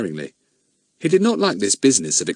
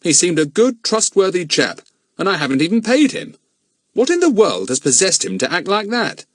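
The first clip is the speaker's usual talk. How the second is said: a lightly voiced grown man, grave; steady adult man puzzling it out; a hint of a serious man; Bill's voice; 9 semitones higher, 4 dB louder than usual. Bill bewildered.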